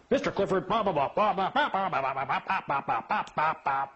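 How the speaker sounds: lightly hammed-up lecture; mocking droning judge.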